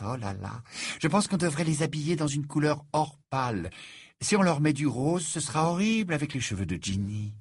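lightly voiced French bride gushing about the wedding; a hint of a fussy French bride; chattering Fleur. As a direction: Fleur prattling on with her oh là là.

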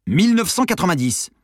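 impatient near-shout; almost shouting. Acted. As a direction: nearly yell the date at her. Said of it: "hurla presque Simon".

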